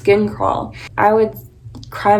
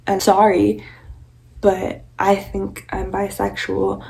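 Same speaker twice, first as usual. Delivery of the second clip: slow, tearful apology; a touch of crying in a halting admission; tearful confession; slower than usual. Retold or imitated. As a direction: force the words out through tears to mom. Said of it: "in tears".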